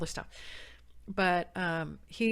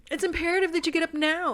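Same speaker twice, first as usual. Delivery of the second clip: commanding shout; 11 semitones higher, 9 dB louder than usual. Retold or imitated. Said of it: "And I go".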